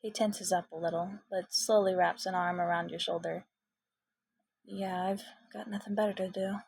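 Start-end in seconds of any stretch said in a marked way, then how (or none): 4.7-6.6 gentle, soft. Acted. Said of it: "His voice is gentle, soft".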